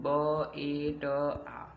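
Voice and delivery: बेटा split into ब, ए, ट, आ; sounded out. Shown as a demonstration. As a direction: say ब, ए, ट, आ as separate drawn-out sounds. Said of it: "वर्ण होते हैं, यही ध्वनियाँ होती हैं".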